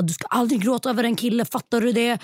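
mild mock telling-off, insistent; scolding dad. Fortune teller talking like her dad, mildly scolding. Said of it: "min blattepappa som skäller ut mig".

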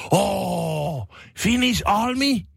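high, excited tourist voice, mock; lightly imitating an eager Japanese tourist. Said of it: "oli silleen". (innostunut turisti, matkittu)

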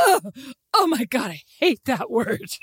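mock-appalled groan; imitating a friend's revulsion; imitated disgust. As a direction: recoil with a hammed-up "ugh". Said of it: "And Rosemary goes".

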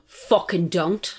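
drawn-out, emphatic telling-off; retold warning, stretched out slowly; slow, firm warning. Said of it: "like that".

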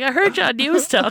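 joking quote, breaking into laughter; laughing mock quote. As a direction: quote the robbers while laughing. Laughing acted quote of robbers.

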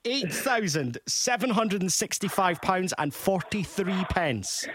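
slow, drawn-out suspense; slow suspense readback. Acted. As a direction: stretch each number out, build tension. Host reads back amount, suspense.

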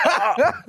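high mock yell of pain; high-pitched retold cry; imitated shout. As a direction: imitate a fallen cyclist yelling, half laughing. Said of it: "he was shouting".

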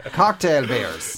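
slow, low, laughing; drawn-out mock deep announcer. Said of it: "I need to say it in a deep voice".

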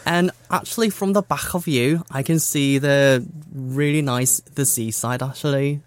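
put-on Scouse, scraping the end of "back"; Scouse accent. Shown as a demonstration. Interviewee describing the view behind the interviewer, Scouse accent. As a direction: chat away in Scouse. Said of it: "I want the real Scouse now".

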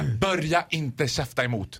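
lightly voiced bouncer warning; a touch of stern guard. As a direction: doorman shutting down backtalk. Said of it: "lät du precis som en av vakterna".

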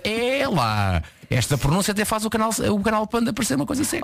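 impressed listener. Retold or imitated. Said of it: "a malta".

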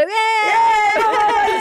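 high, loud mock cheer; kids cheering. Kids cheering their mother's news, high and loud. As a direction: whoop like delighted children. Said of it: "Og ungene bare".

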